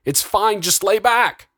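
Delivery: high-pitched, pleading reassurance; urgent soothing. A narrator's reading. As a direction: try to calm her while being pushed away. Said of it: "He tried to soothe as the doctors pushed him away".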